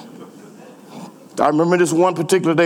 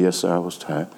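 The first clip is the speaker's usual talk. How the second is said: meek reply; 11 semitones lower, 7 dB quieter than usual. Retold or imitated. Sheepish reply to coach.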